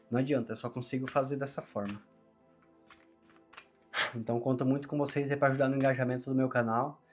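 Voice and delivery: strained, forced voice; pushing words past a sore throat. Real, not acted. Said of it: "peço desculpa pela minha voz, porque eu tô forçando".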